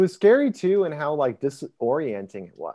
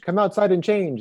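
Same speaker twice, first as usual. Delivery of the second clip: high-pitched retold command; half-hearted shouted order; retold yell; 6 semitones higher than usual. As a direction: imitate a mild yell at the group. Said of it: "he yells at them".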